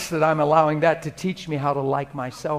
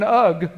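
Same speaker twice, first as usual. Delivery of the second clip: disgusted groan; 3 semitones higher, 6 dB louder than usual. Retold or imitated. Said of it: "Looking in the mirror and going".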